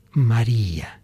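tender, understated calling. Acted. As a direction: call a grieving friend gently by name. Jesus calls Mary by name.

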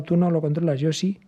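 ordinary talk, nothing marked

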